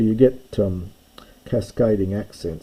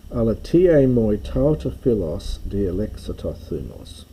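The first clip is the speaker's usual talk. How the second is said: measured recital of a Homeric line; reading Greek verse aloud; 4 dB louder than usual. Shown as a demonstration. Teacher reciting the Greek line for students, measured.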